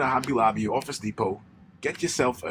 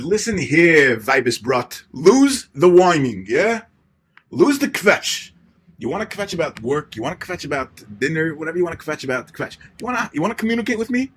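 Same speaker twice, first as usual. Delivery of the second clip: stern shouted order; 3 semitones higher, 7 dB louder than usual. Acted. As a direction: bark it at her like a drill sergeant, dragging each word. Acted stern order to wife.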